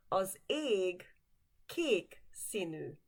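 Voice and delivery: slow model sentence. Shown as a demonstration. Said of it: "The sky is the color of blue".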